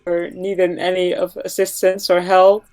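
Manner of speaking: calling out. Acted. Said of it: "try to call out one more time".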